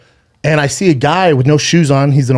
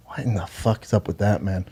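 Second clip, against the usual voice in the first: stunned; 6 semitones lower, 10 dB quieter than usual. Retold or imitated. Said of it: "And I'm like".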